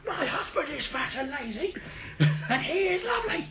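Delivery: high, giggling through the words; high giggling defiance; laughing. Real, not acted.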